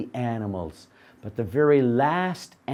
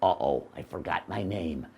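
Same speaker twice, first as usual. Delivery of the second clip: dopey donkey; 9 semitones lower, 7 dB quieter than usual. Acted. Donkey forgets again.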